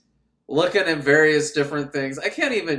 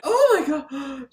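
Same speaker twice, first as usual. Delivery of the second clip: high, slow, drawn-out startled cry; mock fright; 10 semitones higher, 3 dB louder, slower than usual. Woman startled by the man popping up, hammed-up high fright. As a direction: act out a hammed-up scare.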